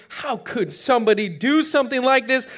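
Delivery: mildly indignant disbelief; a touch of outrage; upset. Acted. David upset about the story, mildly indignant. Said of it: "he's upset about the story".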